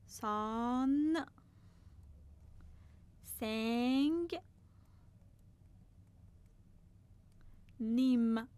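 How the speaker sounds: سان, سنگ, نیم spelled out very slowly with long pauses; syllable by syllable. Shown as a demonstration. Teacher spells out a Korean word for students, syllable by syllable. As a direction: break the word into its syllables, one at a time.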